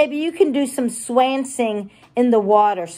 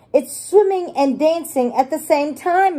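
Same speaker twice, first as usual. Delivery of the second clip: Miss Rabbit; 5 semitones higher than usual. Acted. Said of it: "Miss Rabbit says".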